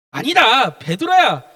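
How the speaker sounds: Jesus. Acted. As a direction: correct the disciple firmly. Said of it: "예수님께서 뭐라 그러냐?". (힘주어 바로잡는 스승 말투)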